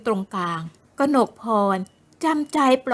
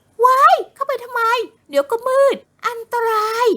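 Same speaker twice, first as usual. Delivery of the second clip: put-on much higher, louder, alarmed young woman; alarmed shriek; 12 semitones higher, 5 dB louder than usual.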